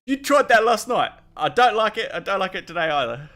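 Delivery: a hint of an irritated Kiwi bloke; annoyed NPC. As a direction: scold him like an annoyed bloke. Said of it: "that's what he says".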